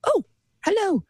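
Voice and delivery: put-on slow, prim elderly British greeting; a gentle posh grandmother greeting the kitten; old lady greeting the boy's cat, mildly posh; proper old lady voice. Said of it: "You love the voice".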